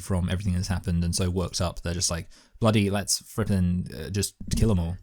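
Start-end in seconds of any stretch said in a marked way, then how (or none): 2.6-5.0 angry mutineer voice. Retold or imitated. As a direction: play a worked-up British mutineer, half-joking. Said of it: "that's a good impression of them".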